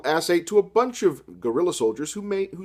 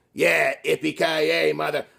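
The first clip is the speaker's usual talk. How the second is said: yippee-ki-yay | action hero; slower than usual. Acted. The speaker's action-hero one-liner.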